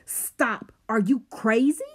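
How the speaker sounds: high, loud squealed protest; squealing. Acted. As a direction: squeal in panic. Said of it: "Simon squealed".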